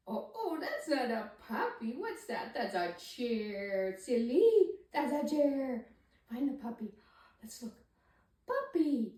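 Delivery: playful, lightly teasing voice; be silly about the mistake; silly baby talk. Shown as a demonstration. Parent correcting baby's mistake, in silly playful baby talk. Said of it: "You can be silly about it".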